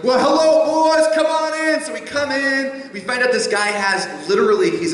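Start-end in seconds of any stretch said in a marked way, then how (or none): 0.0-1.8 lightly voiced cheery Southern welcome; a hint of a Southern host. Big Daddy greets the college boys at his door, lightly voiced. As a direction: throw the door open for the boys.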